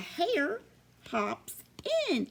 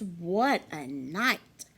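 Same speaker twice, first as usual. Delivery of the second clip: slow hushed whisper; muttered; 4 semitones lower, slower than usual. Acted. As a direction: grumble it under your breath. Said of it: "Mole mutters".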